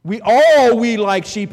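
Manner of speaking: preacher booming the verse to his church; preaching shout. Real, not acted. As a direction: call it out over the congregation. Preacher proclaims scripture.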